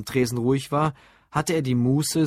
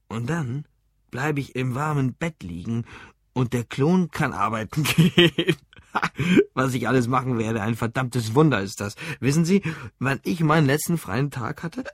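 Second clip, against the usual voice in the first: tipsy man chuckling at his plan; drunk, delighted. Acted. Drunk customer dreams of sleeping in, tipsily delighted.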